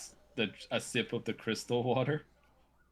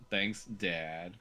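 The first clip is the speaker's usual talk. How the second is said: sarcastic; 4 dB quieter than usual. Acted. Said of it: "sarcastically says".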